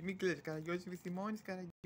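very soft soothing, lifted in pitch; soft consoling. Acted. Consoling the unpaid servant Karagiozis, softly.

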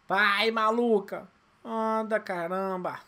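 loud slow yell at the character; raging gamer. Real, not acted. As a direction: rage at the slow runner.

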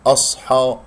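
أصحى with a thick, backed حا; wrongly heavy ha. Shown as a demonstration. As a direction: demonstrate the mistake, darkening the ح in أصحى. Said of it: "ممكن أن تفخم الحاء أيضًا". (أصحى بتفخيم الحاء خطأً)

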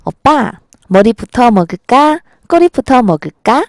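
sweetly imitated Seoul intonation, questions lifting at the end; Seoul woman's accent. Shown as a demonstration. Seoul woman asks boyfriend about fish-bread, imitated Seoul accent. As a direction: ask it like a Seoul girlfriend, lilting Seoul accent. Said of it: "서울 여자들은".

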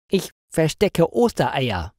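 a hint of an odd stranger's voice; costumed stranger. A narrator's reading. Costumed stranger answers the angry woman.

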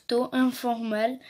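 reading "Taux informal" slowly in a heavy French accent; slow stumbling English. Real, not acted. Girl reading English card aloud, hesitant French accent. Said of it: "Vous allez voir mon accent de ouf".

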